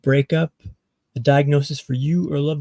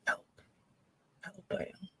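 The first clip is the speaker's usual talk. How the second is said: faint mock cry for help; 3 semitones higher, 19 dB quieter than usual. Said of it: "You can't hear me yelling for help".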